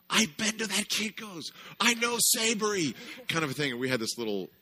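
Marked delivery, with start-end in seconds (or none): 0.1-2.9 high, eager recognition; excited audience member. Retold or imitated. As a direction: chime in thrilled. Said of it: "she goes".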